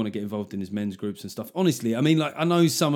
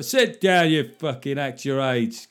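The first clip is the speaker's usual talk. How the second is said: mock scolding; slower than usual. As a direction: scold him like a sour steward. Voicing the scolder.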